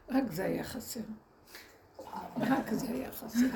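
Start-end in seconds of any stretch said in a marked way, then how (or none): 2.4-3.5 amused repeat with a laugh; laughing at how absurd it was. Real, not acted. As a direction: say it again, laughing through it.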